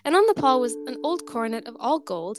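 storyteller reading a folk tale, lively figure voices; story narration. A narrator's reading. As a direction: read it like a fireside tale.

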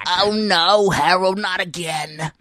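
lightly put-on slow exasperated friend; a hint of a weary old pal; Jerry voice. Host as Jerry sighing at Harold, lightly put-on slow voice.

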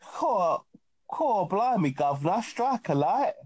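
a hammed-up cockney accent, pitch bouncing; lightly voiced cockney geezer; playful cockney accent imitation; mock cockney. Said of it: "so your brother speaks like".

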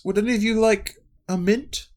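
high, sing-song hostess offer; a hint of a cheery old hostess; sweet offer. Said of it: "she says".

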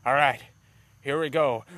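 psyching up for a mock miracle; mock confidence. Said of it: "then he's all like".

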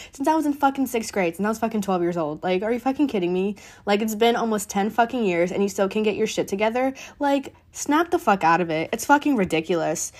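fast, fired-up venting about the team; heated rant. Real, not acted. Fan venting about the Texans, fast heated rant. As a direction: rattle it off, exasperated and swearing. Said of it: "I'm a little heated".

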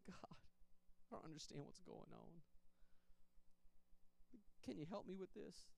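soft, slow, barely voiced plea; a quiet, slow prayer said almost under the breath; hushed prayer. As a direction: whisper the prayer, worn down. Breaking down crying on trail.

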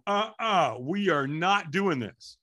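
hammed-up dread of the firewalk; mock panicked protest. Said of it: "I am walking out there going".

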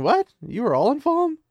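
sudden high, loud disbelief; shocked outburst. Retold or imitated. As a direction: blurt it out in total shock. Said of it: "He's like".

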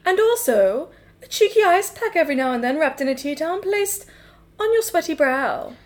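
wise Gibbon. Acted. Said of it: "I'm here as the wise Gibbon".

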